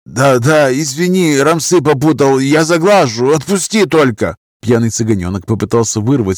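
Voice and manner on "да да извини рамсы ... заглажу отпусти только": higher, pleading; young Roma lad, frightened; begging young drunk. Acted. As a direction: squirm and beg to be let go.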